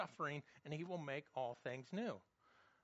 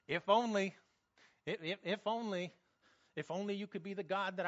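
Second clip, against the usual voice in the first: mocking if only; 5 dB louder than usual.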